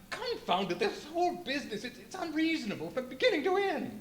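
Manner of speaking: exasperated. Acted. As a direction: rattle it off, fed up with the puzzle. Baffled host loses patience.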